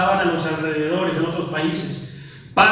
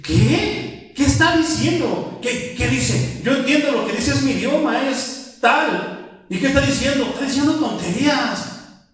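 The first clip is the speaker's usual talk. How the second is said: higher, incredulous questioning of the gibberish; puzzled listener; 6 semitones higher than usual. Retold or imitated. A listener who understands the tongues, mockingly baffled. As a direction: act out someone who can't believe what he hears. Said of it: "la traducción y que dice".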